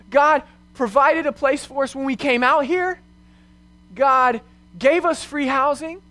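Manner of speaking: retold anxious questioning, pitch lifted to the end; scared and nervous. Wife listing what God has done, retold scared and nervous. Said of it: "really scared and really nervous".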